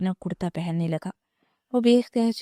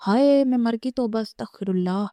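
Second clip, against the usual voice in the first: a shrill gasp of outrage, pitched up and louder; loud shocked cry; 3 semitones higher, 3 dB louder than usual. Acted. Aunt catching the couple together, loud scandalised cry. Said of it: "اونچی آواز میں بولتی".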